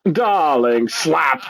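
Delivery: lightly imitated Hungarian accent; a hint of a Hungarian diva; Zsa Zsa Gabor. Host echoes the star slapping the cop, light Hungarian accent. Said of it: "That accent".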